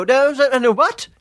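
high, loud ranting protest; teasing a friend by imitating his loud rant; mock rant. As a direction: impersonate a friend ranting in disbelief. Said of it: "you rant".

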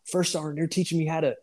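imitating a young soldier's high-pitched Southern accent; mock Southern accent, pitched well above your own. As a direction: put on a high Southern kid's voice. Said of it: "high-pitched Southern accent".

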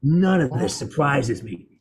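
lightly voiced old-man character; understated, deliberate old veteran; Woods. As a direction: deliver it as the aged survivor, slowing to finish. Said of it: "I go".

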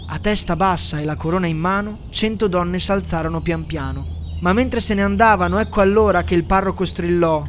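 a lightly solemn storyteller reading verse; a touch of mock-grand narrator; solemn poem narration. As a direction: recite it like a grand old poem over music. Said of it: "la voce soave ed elegante del narratore".

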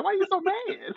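high, laughing mock innocence; teasing question. Teasing an angry friend, high and laughing. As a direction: needle him through a laugh. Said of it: "And I be like".

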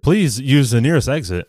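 lightly imitated calm public announcement; unbothered evacuation notice. Host imitating the film's fire alarm, calm announcement voice. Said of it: "It's like this calm voice".

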